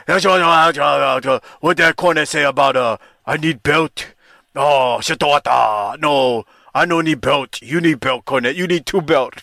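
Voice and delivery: slow, broken English in a mocking Russian accent. Podcaster mocks Nikita's Russian promo, slow mock Russian accent. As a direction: parody a wrestler's bad Russian accent. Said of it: "He's trying to talk in a Russian accent".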